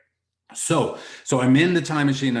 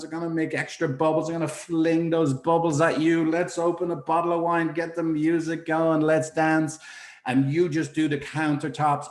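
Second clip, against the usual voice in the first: higher, eager pitch throughout; excited plan; 6 semitones higher than usual. Retold or imitated. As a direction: pitch the big idea like you've cracked it. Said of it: "So I'm all excited".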